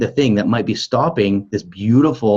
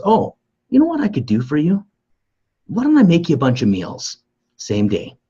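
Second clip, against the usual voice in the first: much higher, bright offering sister voice; eager sister; 7 semitones higher, 4 dB louder than usual. Retold or imitated. Sister offering to cook for Renee, high eager voice. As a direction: offer help sweetly, pitched way up. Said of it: "my sister goes".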